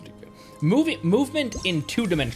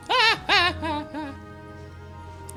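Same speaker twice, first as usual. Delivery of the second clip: high-pitched laugh tailing off. Real, not acted. After saying dead characters stay dead, high laugh. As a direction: burst out laughing high, then let it fade.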